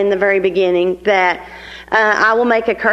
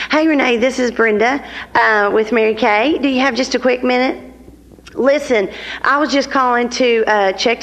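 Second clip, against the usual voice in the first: friendly, upbeat phone greeting; courtesy call demo. Shown as a demonstration. Consultant demos a friendly courtesy call to a customer. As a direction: sound cheerful calling a customer. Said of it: "I'm gonna say something like this".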